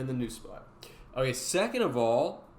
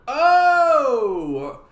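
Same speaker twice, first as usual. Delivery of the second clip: excited shout; 12 semitones higher, 14 dB louder, much slower than usual. Real, not acted. Calling out again.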